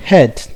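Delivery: ഹെഡ് with a short clipped e; ഹെഡ് with short vowel; short e in head. Shown as a demonstration. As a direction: say ഹെഡ് short, not ഹീഡ്. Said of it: "അതിനുള്ള ഉദാഹരണമാണ്".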